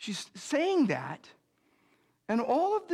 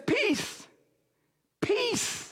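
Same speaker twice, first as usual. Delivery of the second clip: lifted, hushed peace, peace; Jesus greeting; 11 semitones higher than usual. Acted. Risen Jesus greeting his locked-in disciples, lifted and gentle. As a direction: bless the frightened room gently.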